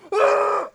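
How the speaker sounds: high, sudden gulp of air; sharp loud-yell wind-up gasp. Shown as a demonstration. Friend demonstrating how he answers late calls, sharp gasp. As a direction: suck in breath before a yell. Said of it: "as loud as I can into the phone".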